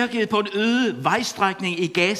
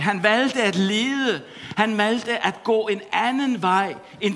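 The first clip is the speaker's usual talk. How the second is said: preaching; 2 semitones higher than usual. Acted. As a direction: build the Gospel point line by line. Preaching at full force.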